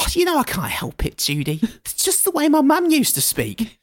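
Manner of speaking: put-on Bethany's accent. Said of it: "accent of yours comes back out".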